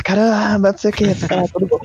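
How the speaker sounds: put-on like a child. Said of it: "igual criança".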